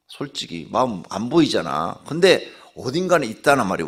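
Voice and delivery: ordinary talk, nothing marked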